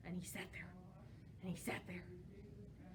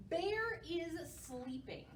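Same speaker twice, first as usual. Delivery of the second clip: slow title; 4 semitones higher, slower than usual. Shown as a demonstration. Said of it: "a song called".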